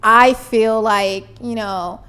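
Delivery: slow gentle I statement. Shown as a demonstration. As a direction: calmly own your feelings. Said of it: "using I statements".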